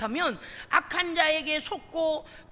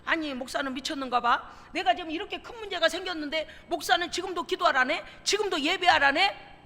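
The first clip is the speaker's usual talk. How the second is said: mocking doubt. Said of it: "이렇게 생각해요".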